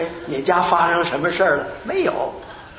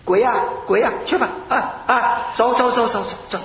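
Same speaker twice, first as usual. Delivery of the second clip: gentle shooing; 4 semitones higher than usual. Retold or imitated. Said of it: "就这么个味道".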